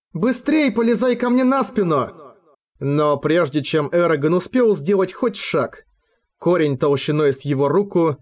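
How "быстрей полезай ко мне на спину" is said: high urgent dragon call. A narrator's reading. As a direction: urge him onto your back, fast. Сапфира зовёт Эрагона в опасности. (высокий тревожный голос дракона)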